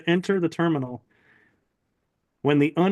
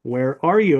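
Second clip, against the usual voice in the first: mildly imitated booming voice; loud booming voice; 4 dB louder than usual. Mysterious voice repeats its question, mildly loud and booming. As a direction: repeat it as an insistent, lightly mock-booming demand. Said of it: "in a loud, booming voice".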